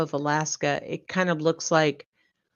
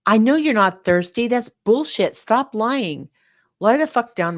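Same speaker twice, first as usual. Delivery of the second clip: louder, higher, fed-up outburst; exasperated parent; 5 semitones higher, 5 dB louder than usual. Acted. Parent losing patience with a child who won't sleep, exasperated. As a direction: snap out of the lullaby, fed up with the stalling child.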